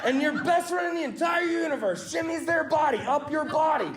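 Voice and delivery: shouted order to the crowd; mock-bossy shout. Real, not acted. Comic ordering the crowd to imagine it, shouting. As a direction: bark it at the audience like a drill sergeant. Forcing audience to picture it.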